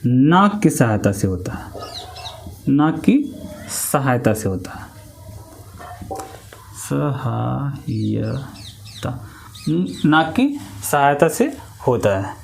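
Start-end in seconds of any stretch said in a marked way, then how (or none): 0.1-8.3 softer, unvoiced explanatory phrase; quiet drawn-out explanation. Shown as a demonstration. Teacher quietly stressing sound through the nose. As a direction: breathe it out quietly. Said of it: "उच्चारण केवल".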